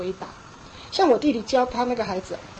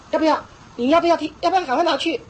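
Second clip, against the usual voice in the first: 威严的逼问; 4 semitones higher, 4 dB louder, faster than usual. Retold or imitated. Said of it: "父母一定要带着一个威严".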